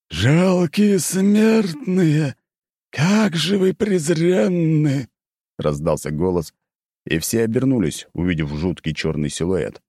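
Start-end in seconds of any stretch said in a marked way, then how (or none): 0.1-5.1 slow, menacing evil spirit voice; booming demon lord. Acted. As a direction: boom it like a demon. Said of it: "прикинулся злым духом".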